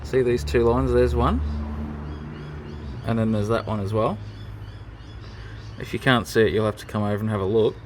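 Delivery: talking while lying on back; strained voice from under car. Real, not acted. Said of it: "I'm under the car now".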